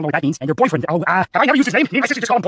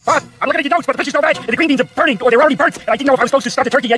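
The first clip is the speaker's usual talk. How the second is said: flustered, higher-pitched fretting; panicked; 5 semitones higher than usual. Acted. Overwhelmed cook phoning Bob for help, panicked. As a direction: report a kitchen disaster in rising panic. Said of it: "Teddy's sounds like a disaster".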